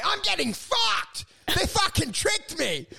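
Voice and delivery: high, drawn-out wail of betrayal; mock outraged cry. Drunk guest realising the guys tricked him, mock outraged cry.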